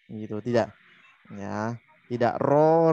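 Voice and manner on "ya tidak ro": "ro" drawn out slowly with an open vowel; "ro" said deliberately slow; slow demo ro. Shown as a demonstration. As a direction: stretch "ro" slowly to show it.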